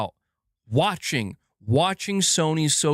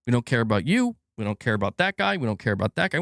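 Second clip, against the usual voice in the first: lower, dismissive corporate voice, lightly put on; blunt dismissal; 4 semitones lower, faster than usual. Company telling fans it does not care, mock dismissive. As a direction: wave each one away, unbothered. Voicing publishers' dismissive message.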